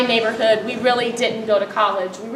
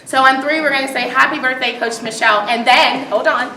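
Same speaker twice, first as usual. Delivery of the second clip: coach voice; 3 semitones higher, 3 dB louder than usual. Real, not acted. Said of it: "in true coach form".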